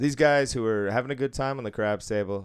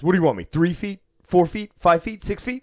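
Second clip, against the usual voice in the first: high, loud, sarcastic yelling; hammed-up indignant shout; mock angry yell; 6 semitones higher, 7 dB louder, faster than usual. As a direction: throw the numbers back at him in disbelief. Retold angry customer yelling.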